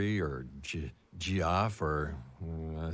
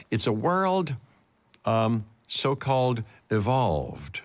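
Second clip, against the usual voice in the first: dramatic reading; slower than usual. Acted. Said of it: "here's a dramatic reading of this game announcement".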